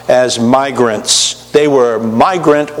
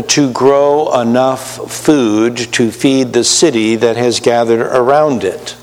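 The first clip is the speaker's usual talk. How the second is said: normal talking voice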